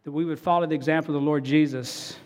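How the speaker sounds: earnest pastoral prayer voice; closing prayer. Real, not acted. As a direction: pray it sincerely to the Father.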